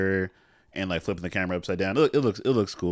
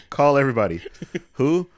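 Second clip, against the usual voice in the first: mock shouted order; 4 semitones higher, 7 dB louder than usual. Acting out Nick Fury's order.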